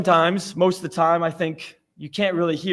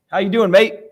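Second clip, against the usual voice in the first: put-on amateur Australian-accented greeting, a bit louder; attempted Australian accent; 5 dB louder than usual. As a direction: have a clumsy go at an Australian accent. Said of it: "I guess that's Australian".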